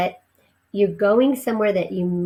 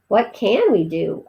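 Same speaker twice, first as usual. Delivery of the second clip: helpless. Acted. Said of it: "asked the father helplessly".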